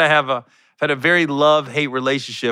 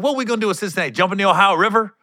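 higher-pitched retold stage question; mock incredulous; 5 semitones higher, much faster than usual. Hype man joking to Cincinnati crowd, mock incredulous. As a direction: ask it up high, setting up the punchline. Retelling his pep rally joke.

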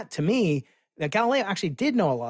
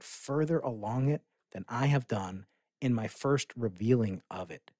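reading Galileo aloud. Retold or imitated. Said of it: "He said".

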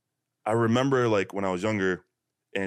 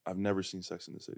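talking through a mouthful of granola; mouth full; 10 dB quieter than usual. Real, not acted. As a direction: say it around a bite of food. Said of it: "I had granola in my mouth".

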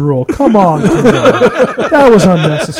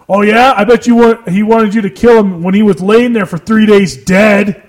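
imitating an aggressive comeback, louder and higher; angry retort; 3 semitones higher, 4 dB louder than usual. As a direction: snap it back like a friend picking a fight. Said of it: "very angrily".

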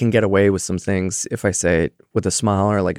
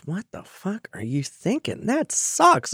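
imitating blunt friend; 9 semitones higher, 5 dB quieter, slower than usual. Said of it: "he goes".

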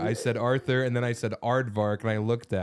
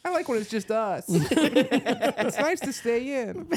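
high feminine voice; 12 semitones higher, slower than usual. Pretend. Feminine voice for a partner.

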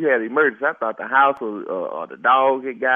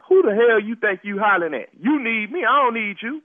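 1 angry retort; 6 semitones higher than usual. Acted. Angered by being yelled at.

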